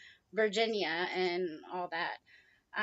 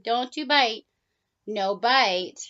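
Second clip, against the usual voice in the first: louder stern warning; firm scolding; 7 dB louder, much slower than usual. Real, not acted. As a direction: warn the bird firmly. Scolding the biting bird.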